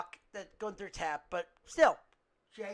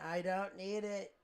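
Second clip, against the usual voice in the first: meme voice; 5 dB quieter than usual. Retold or imitated. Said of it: "It's like the SpongeBob meme".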